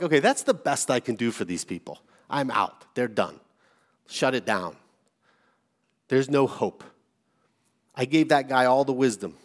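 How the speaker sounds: understated resignation, pitch dropped; resigned. Acted. Preacher voicing God tempted to give up on His people, mildly resigned. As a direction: wearily call it quits, lightly acted.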